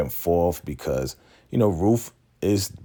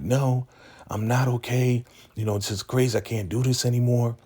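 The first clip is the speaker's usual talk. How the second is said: high, distressed retelling; bugging out; 6 semitones higher than usual. Retold or imitated. Zane tells Ruth she can't cope, upset. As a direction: act out someone at their limit, pitched up. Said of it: "Zane is just really bugging out".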